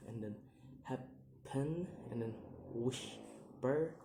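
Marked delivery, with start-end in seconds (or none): 0.8-1.9 "happen" in two separate beats, rising at the end; split syllables. Shown as a demonstration. Teacher giving an exception, "happen" split in two. 2.7-3.9 "whisper" in two separate beats, rising at the end; split syllables. Shown as a demonstration. Teacher giving an exception, "whisper" split in two.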